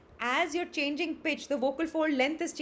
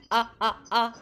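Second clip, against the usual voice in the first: 1 imitating glottal attack; 3 semitones lower than usual. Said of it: "had glottal attack on it".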